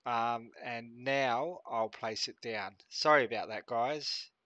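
stuffy, sinusy blocked nose. Real, not acted. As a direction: talk through a stuffed-up nose. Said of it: "I'm sorry about my nose".

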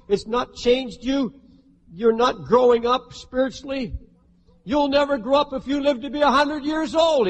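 insistent, building accusation; accusing devil. Acted. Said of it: "He'll come to you and say".

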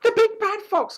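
very high, loud hen cry; high alarmed hen voice; clucking hen. A narrator's reading. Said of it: "clucked Hen".

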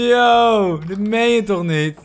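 loud, high disbelieving yell with a laugh; incredulous laughing shout; stunned outburst. Real, not acted. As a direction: blurt out real disbelief. Killed by iron golem.

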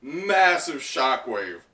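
slow, drawn-out awe; awed. Real, not acted. Reader describes the blast, slowly and awed. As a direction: stretch each word in amazement.

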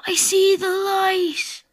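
slow, loud dramatic dying line; hammed-up last breath; dying words. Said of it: "pretend like you're dying".

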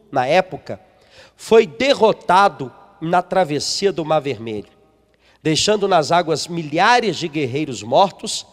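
measured, solemn Bible reading; a lightly solemn reading of scripture. Acted. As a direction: read the verses out with weight. Reads booklet passage aloud.

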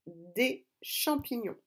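spell-it-out slow teacher delivery; slow dictation. Shown as a demonstration. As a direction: draw each syllable out for writing. Rereading dictation for the correction. (dictée lente, syllabe par syllabe)

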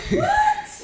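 high, loud startled what; surprised. Real, not acted. Mom caught by her kids' surprise, shrieks in surprise. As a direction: caught off guard, blurting it out. Surprised by Mother's Day setup.

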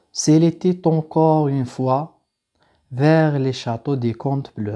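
measured classroom recitation of French verse; slow, careful read-aloud of a poem. Real, not acted. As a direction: read the verse slowly for learners to follow. Reads the poem aloud to students.

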